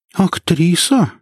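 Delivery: slow, high-pitched puzzled question; bewildered. A narrator's reading. Inga repeating what Zmei revealed, bewildered. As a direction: echo it slowly in high-pitched disbelief. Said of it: "недоумённо повторила Инга".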